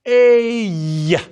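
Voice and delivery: slow English "ella", E gliding into "ay"; wrong English E. Shown as a demonstration. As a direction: let the E slide closed like English. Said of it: "It's not ella".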